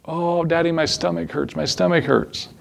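a hint of a sick child complaining to her dad; little daughter. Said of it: "just like with Elizabeth".

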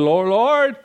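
imitating a sinking man's plea; mock alarmed cry. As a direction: act out calling to be rescued. Peter sinking, calls for help.

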